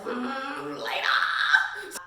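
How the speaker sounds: a breathy, whispered "Lena"; seductive whisper. Retold or imitated. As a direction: purr the name to tempt her. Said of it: "And Archer's like".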